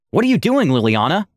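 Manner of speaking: high, startled alarm. Retold or imitated. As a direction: cry out in sudden alarm. Aura startled at gun.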